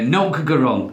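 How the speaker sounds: light Yorkshire turn of phrase; Yorkshire accent. Shown as a demonstration. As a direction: say it with a touch of Yorkshire. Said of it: "very Yorkshire".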